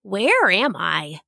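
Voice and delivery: slow, puzzled waking murmur; a slow, lightly confused question. Acted. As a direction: wonder aloud, dazed.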